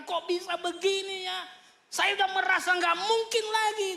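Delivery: a hint of an amazed believer; bewildered believer.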